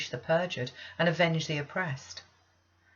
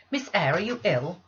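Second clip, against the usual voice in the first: worried maid; 6 dB louder than usual. Acted. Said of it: "said Bessie".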